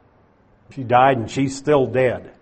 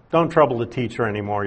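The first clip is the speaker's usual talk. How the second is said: blunt dismissal; 3 semitones lower, 3 dB quieter, much faster than usual. Retold or imitated. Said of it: "Now notice how blunt this message is".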